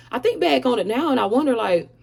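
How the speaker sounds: talking with food in mouth; mouth full. Real, not acted. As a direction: say it around a mouthful. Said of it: "sorry, I had something in my mouth".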